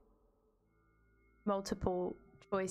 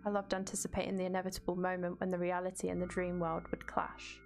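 measured, even read-aloud; story narration. A narrator's reading. Streamer reads game text to viewers, even narration. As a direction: narrate the game's text steadily.

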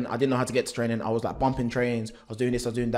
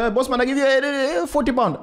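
shopkeeper haggling; 12 semitones higher, 5 dB louder than usual. Retold or imitated. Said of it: "Mom was like".

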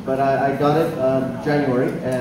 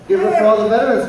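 hyping the crowd; 5 semitones higher, 4 dB louder, faster than usual. Real, not acted.

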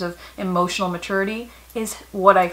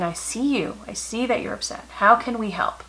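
calm, soft reassurance; 4 dB quieter than usual. Shown as a demonstration. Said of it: "this calm, sort of matter-of-fact conversation".

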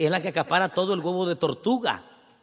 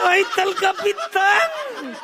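warning voice; 4 dB louder, slower than usual. Retold or imitated. Owner warning sellers in hushed tone.

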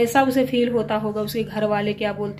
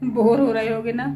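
laughing. Real, not acted. Laughing while asking viewers if they are bored. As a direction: chuckle through the words.

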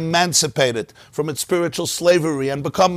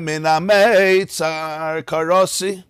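slow, drawn-out recited verse; verse recitation; much slower than usual. Retold or imitated. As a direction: intone the verse, stretching the syllables. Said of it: "starts saying the Psukim".

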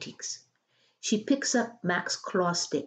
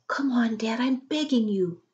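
pleading; 5 semitones higher than usual. Acted. Daughter pleading with father.

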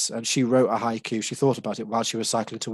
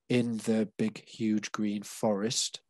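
slow counted line; 3 dB quieter, much slower than usual. Shown as a demonstration. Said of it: "is seven syllables".

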